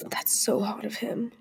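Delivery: breathy little whisper of admiration; whispered swoon. Real, not acted. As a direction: whisper it like a fan crush. Swooning over singer.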